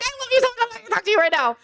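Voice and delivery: high sugary voice, teasing; sing-song it sweetly to the brother you're mad at; sister's high, syrupy mock-affection. Sweet-talking brother mid-argument.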